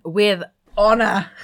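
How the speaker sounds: slow, proud proclamation in jest; mock-grand. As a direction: declare it with hammed-up pomp. Mock-solemn list of burp achievements.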